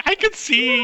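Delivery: high, elated cry; overjoyed orc. Acted. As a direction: exclaim it in high-pitched delight. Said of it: "he's, like, so happy".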